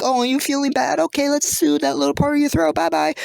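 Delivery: soothing. Acted. Cough drop soothes the throat.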